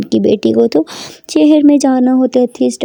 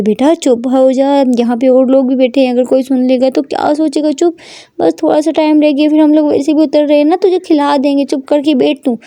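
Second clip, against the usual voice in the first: mild mock shout; 3 semitones higher than usual. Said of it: "shout करके बोलती है".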